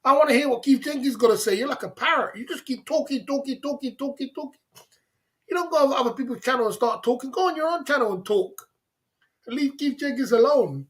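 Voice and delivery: exasperated yell at the talker; mock yell. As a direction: shout him down in mock anger. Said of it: "I was like".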